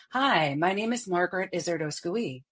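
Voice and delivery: melodic, bright, lots of inflection; feminine speech pattern. Shown as a demonstration. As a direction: let the pitch dance, forward and melodic. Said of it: "a traditionally very feminine perceived speech pattern".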